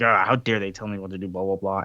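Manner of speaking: low, fast mock grumbling; understated low-pitched huff; stewing. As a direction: act out muted indignation in a rush. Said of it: "just sitting there stewing".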